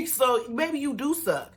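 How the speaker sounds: laughing at the coach's burn. Real, not acted. Laughing at her own jab.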